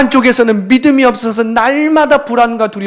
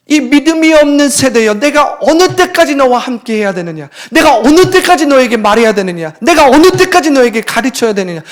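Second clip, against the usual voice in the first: raised, louder, anguished rebuke; loud lament; 4 semitones higher, 5 dB louder than usual. Acted. Jesus cries out to the faithless disciples, raised and loud. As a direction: cry out how long must I bear you.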